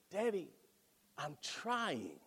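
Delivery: quiet daughter's plea, lightly voiced; soft quoted plea. Daughter to father, soft plea. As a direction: hush it like a tired child. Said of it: "She said".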